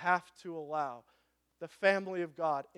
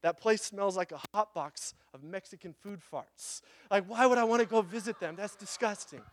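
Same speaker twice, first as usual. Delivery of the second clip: disgusted husband; 2 semitones higher than usual. Retold or imitated. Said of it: "And he says".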